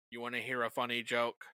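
flat robotic question. Shown as a demonstration. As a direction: ask like a robot. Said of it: "the robotic episode".

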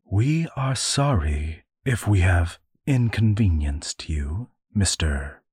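whispered formal apology; eldest sister addressing stranger. Acted. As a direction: speak it hushed and stiffly polite. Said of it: "cleared her throat to address the stranger".

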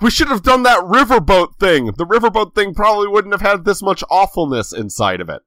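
whiny guest voice. Retold or imitated. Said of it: "the guests were like".

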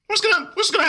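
fast, high mock-sexy voice; rushed hammy seductive tone; super sexy voice. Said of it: "my super sexy voice".

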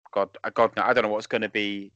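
normal talking voice

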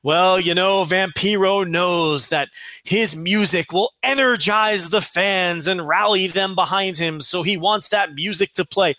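slow, stretched-out commentator explanation; desperate smoothing-over. Retold or imitated. Commentator covering for his partner's outburst, laboured and earnest. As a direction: imitate an announcer stalling carefully. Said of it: "is desperately trying to weave".

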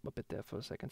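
mic cutting out. Real, not acted. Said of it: "microphone was acting up".

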